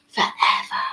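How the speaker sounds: breathy whispered repeat of forever; whispered echo. Pretend. Echoing her own word playfully.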